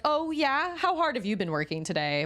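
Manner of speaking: sarcastic challenge to the dog; mock confrontation. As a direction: taunt the lazy dog playfully. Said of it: "and you're like".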